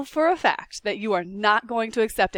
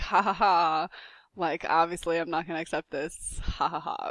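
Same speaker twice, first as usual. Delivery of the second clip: mock laugh; 5 semitones lower, 4 dB quieter than usual. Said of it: "I'll just laugh at my students".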